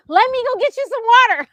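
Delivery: high, loud, rushed offer of help; imitating a man in a flap to help; fast retold fussing, voice way up; urgent. Retells John rushing to help.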